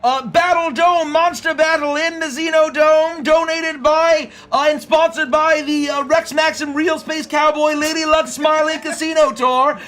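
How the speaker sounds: announcer voice. Acted. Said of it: "announcer voice".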